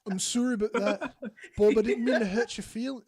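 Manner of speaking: attempted Canadian accent, slightly off. Shown as a demonstration. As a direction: perform a Canadian apology on request. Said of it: "let's hear it".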